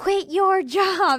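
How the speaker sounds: mock very high-pitched, insistent shouted yell. Retelling how a business mentor yelled at her in the grocery store: imitating a mentor yelling. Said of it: "she was in the grocery store yelling at me".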